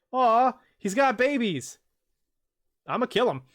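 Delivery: mock coo then threat. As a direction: coo over the babies, then promise to kill. Self-quote, cooing then threatening.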